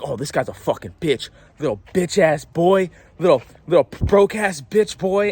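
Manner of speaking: mocking the thief. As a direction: sneer the insults like the rude stranger. Voicing the hostile coffee thief.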